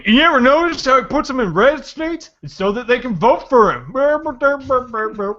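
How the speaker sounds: mock Texas redneck accent; ranting put-on Texan. Mocking a Texan militia man in a Texas accent. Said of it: "that's a great Texas accent".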